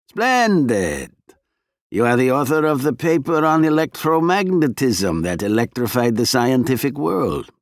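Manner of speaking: lightly voiced sly Russian agent; a hint of a smooth, menacing spy.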